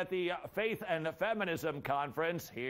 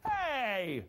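mock offended; 10 semitones higher than usual. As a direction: play a huffy offended churchgoer.

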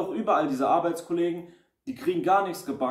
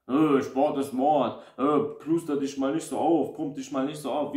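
mocking critic. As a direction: belittle the gym guy. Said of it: "so einen Bullshit gehört".

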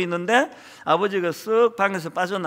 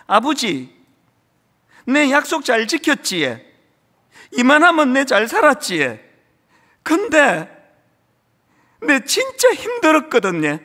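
higher, louder, voice straining with tears in Gyeongsang dialect; a grown son's tearful, rising Gyeongsang confession to his dead father; tearful Gyeongsang plea; 6 semitones higher, 5 dB louder than usual. Retold or imitated. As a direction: pour out the old son's hidden pain in Gyeongsang dialect. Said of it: "울면서 이런 이야기를 합니다".

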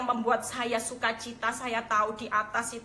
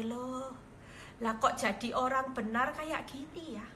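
hushed puzzled disappointment; saddened dismay; 3 semitones higher than usual. Retold or imitated. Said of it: "Tapi yang di atas sedih".

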